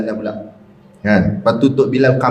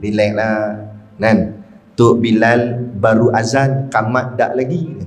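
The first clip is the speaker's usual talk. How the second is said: devil's lazy coaxing; 5 semitones lower than usual. Retold or imitated. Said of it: "dia bisik kat telinga kiri".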